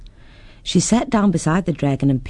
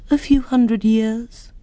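slow, unhurried dragon voice; drawn-out ancient creature; old dragon; 7 semitones higher, slower than usual. Acted. Dragon answers.

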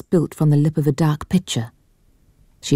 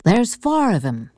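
a lightly voiced village lad, eager to help; a hint of a rustic youth offering news; helpful country lad; 5 semitones higher than usual. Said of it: "Allbones adds helpfully".

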